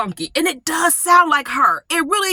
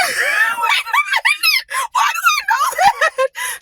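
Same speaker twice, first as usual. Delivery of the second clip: baffled; slower than usual. Real, not acted. Baffled at own knowledge.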